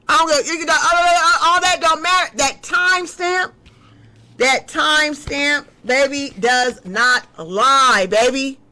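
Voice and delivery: heated emphatic. Real, not acted. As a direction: hammer it home, heated.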